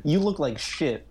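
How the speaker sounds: slow, deadpan insult; deadpan insult repeated slowly to his face; quoting a blunt insult. Retold or imitated. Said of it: "She says it twice to his face".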